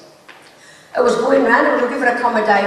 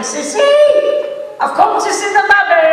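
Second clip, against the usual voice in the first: loud, higher call to someone inside; shouting through the door; 8 semitones higher, 3 dB louder than usual. Retold or imitated. Man at the door calling to Sissy inside, shouting. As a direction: yell it through a closed door. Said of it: "banging on the door shouting".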